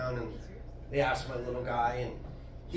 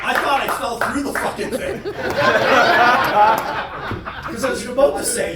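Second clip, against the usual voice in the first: loud, high, laughing exclamation; real laughing yell at his own stumble; laughing shout; 8 semitones higher, 12 dB louder than usual. Real, not acted. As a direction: belt it out while cracking up. Shouting through laughter after stumble.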